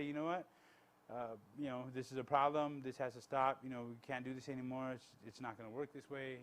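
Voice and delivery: low, soft, composed firmness; soft-voiced, measured telling-off; gentle correction. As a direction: state the problem calmly and gently. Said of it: "with a soft voice, you know, with a gentle voice".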